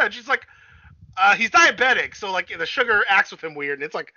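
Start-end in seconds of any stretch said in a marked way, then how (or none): 1.2-3.8 sheepish excuse. Retold or imitated. Sheepish excuse in retold scene.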